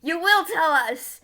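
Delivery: slow, loud interrogator's order; menacing demand. Acted. Axe threatening the tied-up gingerbread man, slow loud demand. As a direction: bear down on the prisoner, drawn out and loud.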